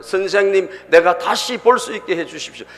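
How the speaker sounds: acted-out heartfelt entreaty; desperate pleading. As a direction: plead to be allowed to see. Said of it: "간절하게 예수님에게 막 쫓아와서".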